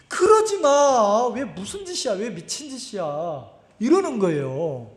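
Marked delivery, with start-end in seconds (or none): 0.1-3.5 protesting inner voice. Retold or imitated. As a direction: act out the voice inside holding you back. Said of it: "속에서 어떤 놈이". (말리다가 잦아드는 속마음)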